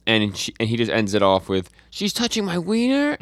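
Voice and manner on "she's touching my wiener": very high mock-panicked squeal; freaking out. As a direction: squeal it in comic alarm. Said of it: "he's still freaking out".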